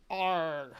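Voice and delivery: gruff pirate arr; pirate growl. Pretend. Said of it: "it's Pirate Bree".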